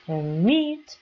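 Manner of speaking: Permit with a long, stressed "mit"; stress on second syllable. Shown as a demonstration. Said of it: "y ahí tengo la acentuación en meet".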